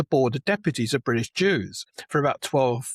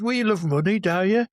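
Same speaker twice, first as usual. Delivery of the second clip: higher-pitched mock Black Country schoolboy; Black Country accent; 7 semitones higher than usual. Boy challenging his teacher about money, in an imitated Black Country accent. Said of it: "in his lovely Black Country accent".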